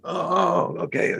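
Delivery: high, breezy oh okay; mock surprise. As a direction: act casually caught off guard.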